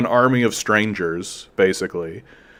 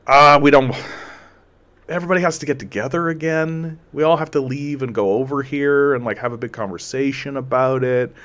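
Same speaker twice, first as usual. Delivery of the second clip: annoyed reluctance; 2 semitones higher than usual. Retold or imitated. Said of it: "done with this attitude of just".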